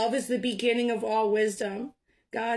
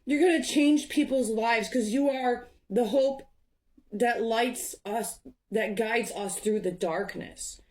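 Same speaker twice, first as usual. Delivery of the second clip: getting emotional; 2 semitones higher than usual. Real, not acted. Reader moved while telling viewer they bring hope, emotional. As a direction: let the feeling rise as you promise them hope. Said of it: "I'm getting emotional".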